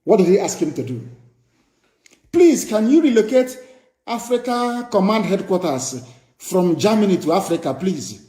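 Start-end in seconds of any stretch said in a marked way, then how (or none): 2.3-8.2 mock the president's pleading request; mocking plea. Preacher mocks the leader begging the US, pleading. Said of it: "Buhari asked".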